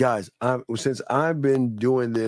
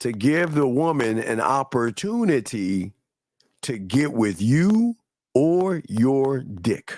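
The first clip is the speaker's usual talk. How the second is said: deliberately slowed down, slower delivery. Repeating advice to the men listening, slowed down delivery. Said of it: "slow it down again".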